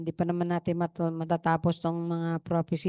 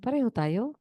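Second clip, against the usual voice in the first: surprised grandmother; 3 semitones higher than usual. Retold or imitated. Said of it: "Sabi niya".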